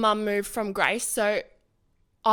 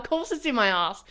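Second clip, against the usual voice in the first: exasperated; 4 semitones higher, 4 dB louder than usual. Retold or imitated. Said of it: "I'm like".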